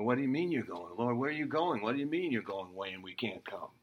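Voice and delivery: quick, baffled disbelief in Peter's voice; bewildered Peter. Retold or imitated.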